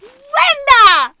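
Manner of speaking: high, loud, near-tearful cry of joy; overwhelmed cry. Real, not acted. Vlogger overcome by friend's gift for her son, tearful joy.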